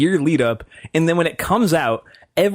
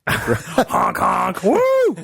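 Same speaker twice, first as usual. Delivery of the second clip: silly clown; 7 semitones higher, much slower than usual. Pretend. Clowning morning show noises.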